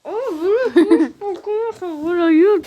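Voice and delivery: mumbling through closed lips; talking with mouth closed. Real, not acted. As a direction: speak without opening mouth. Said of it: "il faut pas que j'ouvre la gueule".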